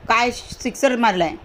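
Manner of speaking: loud burst on ओहो, then back down; excited shout. Shown as a demonstration. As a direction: cheer a six in cricket. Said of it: "आपण ओरडतो".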